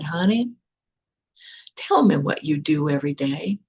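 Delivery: lightly imitated Southern US accent; soothing Southern accent. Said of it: "soothing Southern accent".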